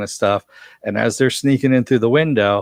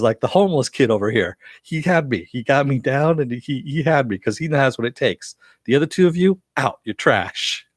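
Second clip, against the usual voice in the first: put-on New Jersey accent; 4 semitones higher than usual. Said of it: "doing the New Jersey accent".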